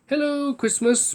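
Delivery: big, slow giant greeting; slow friendly giant boom. A narrator's reading. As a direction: draw it out like a giant. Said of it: "boomed the giant voice".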